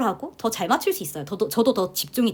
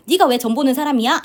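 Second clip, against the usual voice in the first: a mildly raised, louder retold scolding; mock angry mother; 4 semitones higher, 6 dB louder than usual. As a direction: voice the upset mother, a bit louder. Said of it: "이렇게 화를 내셔요". (화난 엄마 흉내, 조금 큰 목소리로)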